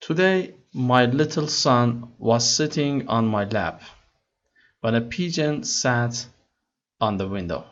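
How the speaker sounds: slow, careful read-aloud of English text; slow story reading. Acted. Teacher reading the English story to students slowly. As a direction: read each word slowly for learners.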